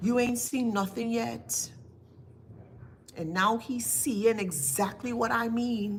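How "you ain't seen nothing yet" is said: very low, flat monotone. Retelling what he said close to a man's ear when police came: very low monotone. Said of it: "in a very, very, very low monotone tone".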